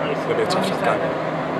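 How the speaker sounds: shivering with cold; words shaking from the cold; teeth chattering. Real, not acted. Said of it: "you look like you're a bit cold there".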